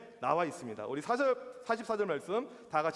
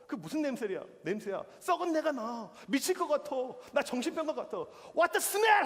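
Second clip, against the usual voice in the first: imitated angry outburst; 5 semitones higher than usual. Roommate reacting to kimchi stink in his fridge, imitated angry outburst. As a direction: mimic a disgusted roommate losing his temper, pitch climbing. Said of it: "화를 내는 거야".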